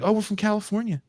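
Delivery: high, breezy fake American accent; "we're from California" said high with a carefree fake American lilt; a Scot pretending to be Californian; bad American accent. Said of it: "the worst American accents ever".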